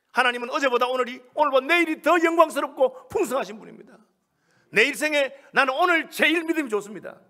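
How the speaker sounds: loud, high pulpit proclamation; rousing, emphatic sermon voice; full-force preaching. Real, not acted. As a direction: drive each point home to the congregation.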